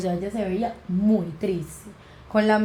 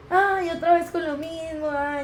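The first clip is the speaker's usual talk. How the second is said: higher, slow, exasperated mother voice; an annoyed mom brushing off her daughter; mother scolding her daughter for repeating the omen, exasperated and higher; 8 semitones higher, slower than usual. Retold or imitated. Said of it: "mi mamá me regañó".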